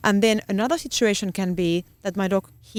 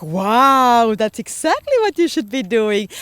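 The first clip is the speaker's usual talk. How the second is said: enthusiastic praise; 3 semitones higher, 6 dB louder, slower than usual. Retold or imitated. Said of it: "I'm like".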